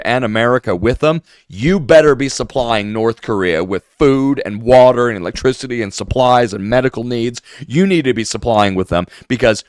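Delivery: lightly voiced sneering pundit; mock outrage, only slightly put on; sarcastic mockery. Mocking influencers' Korea logic, mild mock outrage. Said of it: "imagine them coming out and saying".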